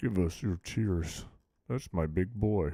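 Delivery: low, creepy, sinister cartoon villain voice. Streamer on stream asking someone for tears, in a Meat Canyon cartoon villain voice. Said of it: "Sounds like a villain in a Meat Canyon cartoon".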